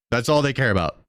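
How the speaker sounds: said through a real laugh. Real, not acted. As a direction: chuckle your way through it. Repeats line, laughing now.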